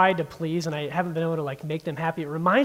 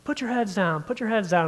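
higher-pitched, held-back yell, repeating the order; mock drill-sergeant yell; 4 semitones higher than usual. Drill sergeant ordering recruits on the bus, mock screaming. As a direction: imitate a screaming sergeant without real volume. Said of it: "he starts screaming at us".

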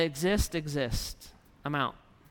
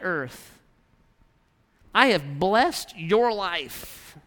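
God's frustrated voice; 3 semitones higher than usual. Acted. Preacher voicing God's complaint today.

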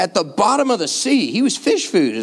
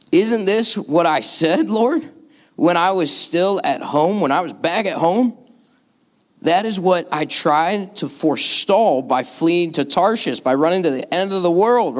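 sarcastic frustration. Acted. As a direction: complain to God with mild exasperation. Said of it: "Can you hear Jonah in his sarcastic undertones?".

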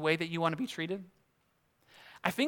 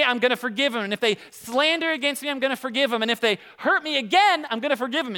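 stack each promise higher like he's proud; building boast; 5 semitones higher than usual. Retold or imitated. Peter boasting to Jesus about forgiving, rising proudly. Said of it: "so Peter's saying".

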